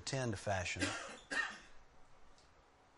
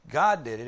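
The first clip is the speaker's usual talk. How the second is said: loud punch on GOD; driven home; 7 dB louder than usual. Shown as a demonstration. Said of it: "the idea is driven home".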